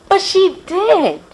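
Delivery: high, slow gleeful reveal; delighted. Acted. Mary telling Rudy the good news, delighted. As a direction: savour the happy surprise.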